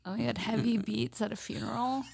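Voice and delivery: hushed joking whisper. Real, not acted. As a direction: whisper it like a secret. Joking about funeral DJ.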